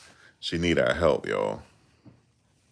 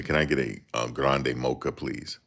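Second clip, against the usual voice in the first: drive-thru order; 3 semitones lower, 4 dB quieter than usual. Retold or imitated. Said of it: "When I go to the drive-thru".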